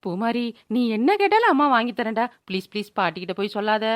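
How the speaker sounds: coaxing plea. Acted. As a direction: wheedle the child to keep a secret. Mother begging child not to tell. (கெஞ்சும் குரல்)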